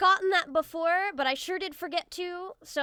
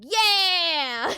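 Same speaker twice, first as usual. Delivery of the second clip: excited; 3 semitones higher, 9 dB louder than usual. Real, not acted. Success catching creature.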